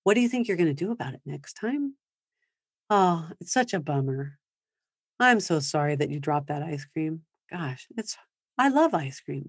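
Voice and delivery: put-on soft, gentle empathy to a child; empathetic parent. Shown as a demonstration. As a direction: sound sorry for the child's bummer. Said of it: "to be able to, like".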